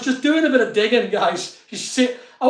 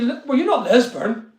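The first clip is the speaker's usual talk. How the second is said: usual speaking voice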